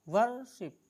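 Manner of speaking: वर्शिप with the weight on वर्, शिप left light; stress on first syllable. Shown as a demonstration. Teacher showing students where the stress falls, punching वर्. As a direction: punch वर्, let शिप fall away. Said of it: "पहले syllable पे जोर है".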